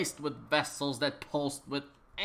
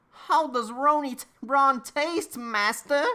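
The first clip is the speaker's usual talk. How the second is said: Dobby voice; 9 semitones higher, 4 dB louder than usual. Acted. Dobby voiced addressing Harry.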